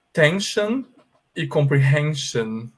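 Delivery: "Tension" and "comprehension" each ending in a clear shun; English pronunciation demo. Shown as a demonstration. Teacher showing students the S I O N sound, English pronunciation demo. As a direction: model "Tension" and "comprehension" with an sh sound before the final n. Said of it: "Prestem atenção à minha pronúncia".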